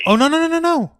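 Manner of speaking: high, loud rapid-fire no-no-no; emphatic objection. Real, not acted. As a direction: cut in loudly to protest. Cuts in to correct co-host.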